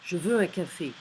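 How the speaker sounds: loud blunt demand, falling end; rude. Shown as a demonstration. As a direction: bark it like an order.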